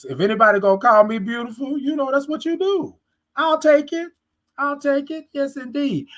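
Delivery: high-pitched, delighted; giddy. Real, not acted. Viewers call her beautiful, giddy high-pitched delight. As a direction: squeal it out flattered. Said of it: "flattered by compliment".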